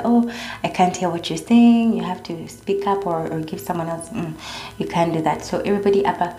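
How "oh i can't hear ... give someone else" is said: rude complaint. Retold or imitated. Caller snapping at customer care, rude and impatient. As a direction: snap at the agent you can't understand. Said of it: "unaweza anza kuambia".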